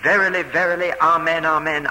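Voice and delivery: preacher voicing a weighty pronouncement; emphatic. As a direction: press each repeated word home firmly. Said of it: "Jesus repeats his claims emphatically".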